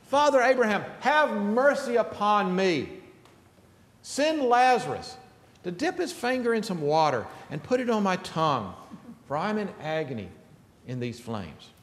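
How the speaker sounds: the rich man begging Father Abraham from the flames; pleading cry. Acted. Rich man to Abraham, a pleading cry fading away. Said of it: "the rich man cries out".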